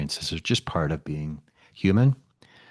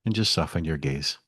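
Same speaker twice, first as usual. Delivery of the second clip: unhurried meditation guide with long pauses; lightly held guided-meditation voice. Acted. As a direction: ease listeners gently into stillness, leaving space between phrases.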